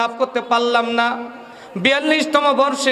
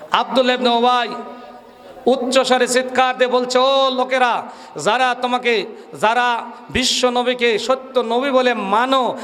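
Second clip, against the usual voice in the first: forceful, declamatory Bengali sermon delivery; waz preaching. Real, not acted. Preacher telling a gathering the story behind the verse, oratorical. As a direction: preach it to the crowd in long, ringing phrases.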